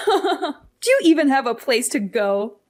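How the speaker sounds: laughs through the question, slow and scornful; mocking laugh. Mother mocks her daughter's threat to leave, laughing scornfully. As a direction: scoff at her threat with a chuckle.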